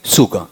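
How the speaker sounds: "शुगर" with only a slight sh and no final r; light sh. Shown as a demonstration. Teacher showing just how much sh, lightly said. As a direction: say "शुगर" as "shuga", sibilant kept light. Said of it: "वो भी हल्का शंकर वाला".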